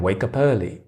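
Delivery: "wake up early" linked as way-kuh-pearly; connected speech. Shown as a demonstration. Teacher letting learners hear the sound, "wake up early" linked. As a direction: say "wake up early" as one word, falling. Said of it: "you hear the sound".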